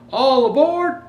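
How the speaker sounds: hearty conductor's shout; conductor's cry. Acted. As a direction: call it down the platform. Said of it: "the conductor cried out".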